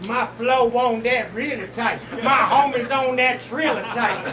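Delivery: lightly put-on southern accent, mocking; fake southern accent. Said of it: "with a fake southern accent talking about".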